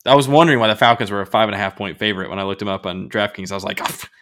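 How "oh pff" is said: retold outburst, pitched high; mock indignation. Retells his outraged reaction to odds.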